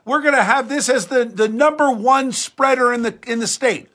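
high, loud mocking impression of a panicked official; mocking quote. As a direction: mimic her alarm, hammed up. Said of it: "that idiot Judy Persicilli saying".

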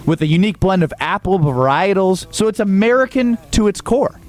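a lightly pitched live sponsor read. Acted. Host reading a cider ad on air, mild ad-read voice.

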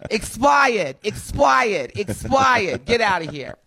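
repeated East Coast dismissal, R dropped in "expired"; East Coast accent. Acted. Host mimics the East Coast sending a player off, East Coast accent. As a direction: toss them out like an East Coast local. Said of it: "Like they say on the East Coast".

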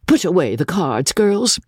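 high, hurried hushed warning; great tremor. A narrator's reading. Mother warning the girls before Mister Crawley enters, anxious and hushed. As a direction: urge the girls in a nervous half-whisper. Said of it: "cried my lady in a great tremor".

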